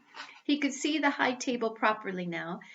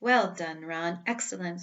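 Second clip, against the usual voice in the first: pompously; 4 semitones lower than usual. Acted. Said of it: "said Percy Weasley pompously".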